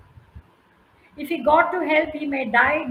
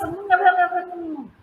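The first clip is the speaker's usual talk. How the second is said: squirrel chatter; 4 semitones higher, 5 dB louder than usual. Acted. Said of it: "So the squirrel says".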